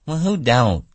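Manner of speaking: reassured woman. A narrator's reading. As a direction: relax into chatty agreement. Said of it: "She was a little bit reassured".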